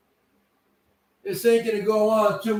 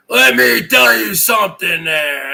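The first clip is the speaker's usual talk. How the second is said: louder, bellowed in character; loud hunter call; 4 dB louder than usual. Acted. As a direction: belt it out as the boastful hunter. Same line, muttered then shouted.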